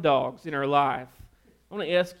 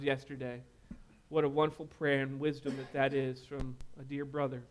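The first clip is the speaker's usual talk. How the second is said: closing prayer; 3 dB quieter than usual. Acted. Pastor prays over the congregation, hushed and earnest. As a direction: pray quietly and sincerely.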